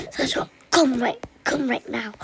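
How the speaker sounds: loud call across the house; play-panicked loud summons; urgent call. Pretend. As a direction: yell for your sister to come. Calling sister for help.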